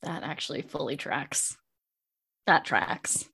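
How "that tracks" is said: breathy whispered echo; whispered aside. Real, not acted. Cohost whispering agreement to herself. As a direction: drop to a whisper for the repeat. Echoing own remark quietly.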